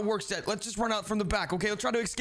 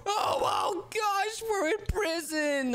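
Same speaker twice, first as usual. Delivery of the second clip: shocked shout; 13 semitones higher, much slower than usual. Pretend. Finds himself in prison.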